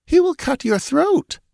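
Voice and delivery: high-pitched, defiant certainty; with conviction. A narrator's reading. Captive warns her captor about the warrior, with conviction. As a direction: answer with conviction in a high girl's voice. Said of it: "answered Natala with conviction".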